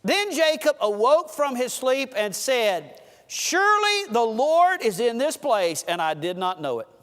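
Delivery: slow, measured Bible reading; scripture reading. Acted. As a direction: read the verse slowly and solemnly.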